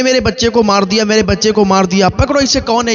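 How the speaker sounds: rising, outraged cry for the culprit; parents' outraged cry over their dead son; anguished accusing cry. Acted. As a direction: raise the voice, grabbing the hunter. Grieving parents seize the killer.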